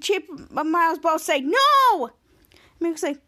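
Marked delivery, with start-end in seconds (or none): 1.4-2.1 higher, louder mock shout; hammed-up outcry; retold protest. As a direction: shout a drawn refusal. Two characters refusing together.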